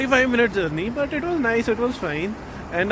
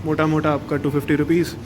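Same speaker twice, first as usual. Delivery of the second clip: hindi english mix; much faster than usual. Real, not acted. Casual Hindi English vlog chat.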